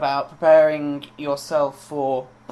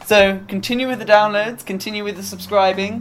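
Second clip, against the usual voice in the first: higher, lilting promotional spiel; put-on presenter voice; 4 semitones higher than usual. Host urging listeners to keep downloading, in a put-on presenter lilt. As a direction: urge them on in a put-on lilt. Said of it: "stop talking like that, please".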